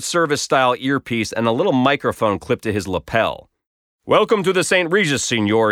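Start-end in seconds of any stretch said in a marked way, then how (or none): 4.0-5.7 put-on Spanish-accented English, higher start; hotel porter with a Spanish accent. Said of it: "he said in accented English".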